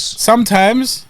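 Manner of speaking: drawn-out slow admission. Real, not acted. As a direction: say it slowly and deliberately. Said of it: "And he said it so slow".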